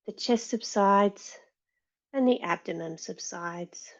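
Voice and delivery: calm meditation lead with long pauses; guided meditation. Real, not acted. Yoga teacher settling the class before practice, guided meditation. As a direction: guide them gently inward, leaving space after each instruction.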